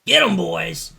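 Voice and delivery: loud, high rallying yell; yelled battle order. Acted. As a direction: yell it to rally your crew. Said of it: "And he yells".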